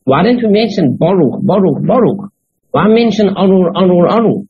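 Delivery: imitating someone pressing a question; puzzled questioning. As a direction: put the commentator's question with lively, rising emphasis. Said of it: "that's what he's asking".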